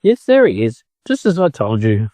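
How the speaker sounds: a lightly voiced chicken, eager to show off. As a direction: lead them on as the boastful chicken. Chicken bragging.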